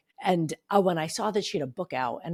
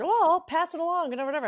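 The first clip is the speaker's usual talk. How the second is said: imitated brush-off; 10 semitones higher than usual. Retold PR person's offhand reply.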